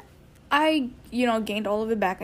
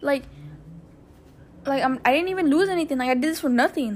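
annoyed; 2 semitones higher than usual. Retold or imitated. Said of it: "And I was so mad".

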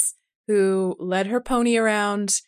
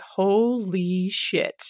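very slow, drawn-out stunned holy shit; awed disbelief; much slower than usual. Retold or imitated. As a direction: let it sink in slowly. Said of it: "And he's like".

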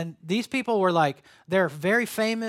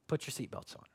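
breathy hush, much softer; whispered warning; 4 semitones lower, 11 dB quieter than usual. Real, not acted. Pastor warning the congregation, in a playful whisper. Teasing a fired-up message.

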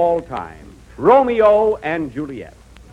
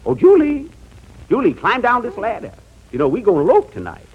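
hammy stage actor; 4 semitones higher, faster than usual. Acted. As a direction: overblown lovesick Romeo, lightly voiced. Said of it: "Doc Benny's version of the greatest love story".

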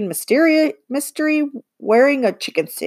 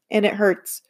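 whispered aside. A narrator's reading. Narrator's rueful aside on bumping.

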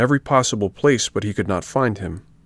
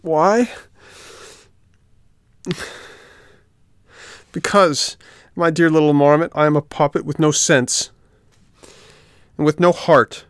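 pleading puppet; 7 semitones higher, 3 dB louder than usual. A narrator's reading. Puppet to the marmot, high and loudly pleading. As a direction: beg to be believed.

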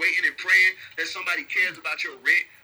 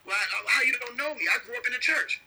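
higher, whiny protest of a churchgoer; a churchgoer protesting he grew up in church; mock pleading churchgoer; 6 semitones higher than usual. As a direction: plead your case, pitched up. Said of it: "churchgoer pleading".

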